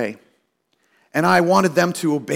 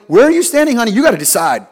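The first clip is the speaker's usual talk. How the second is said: demanding husband; 3 semitones higher, 6 dB louder, faster than usual. Retold or imitated. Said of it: "And I was like".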